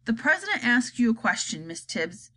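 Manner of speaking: cold stern nanny; icy voice. Acted. Miss Tibbs scolds the chief spy, icy and stern. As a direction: chill the spy with cold words. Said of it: "in an icy voice".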